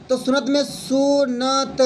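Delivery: "सुनत" split into short syllables, slowly; slow syllable demo. Shown as a demonstration. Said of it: "जल्दी जो कंठ से निकल जाए". ("सुनत" को धीरे-धीरे अक्षर-अक्षर बोलें)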